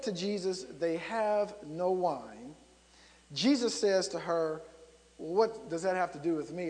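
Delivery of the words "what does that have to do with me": mildly put-upon reply; typical male response. Retold or imitated. Son answering his mother, a mild typical male brush-off. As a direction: lightly imitate a reluctant man. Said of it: "Almost a typical male response".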